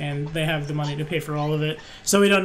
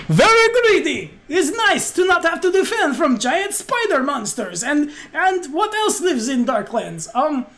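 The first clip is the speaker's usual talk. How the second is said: excitable innkeeper in broken English; lilting foreign storyteller, hunting for examples; chatty innkeeper; 9 semitones higher, 5 dB louder, slower than usual. Acted. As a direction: ramble cheerfully in a thick character accent.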